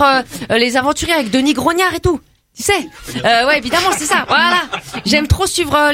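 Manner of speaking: put-on brash teen girl from the estate, chatty and cocky; cheeky suburban girl. Comedy guest chatting to the radio host as a cocky suburban girl. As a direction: play a gossipy banlieue girl full of slang.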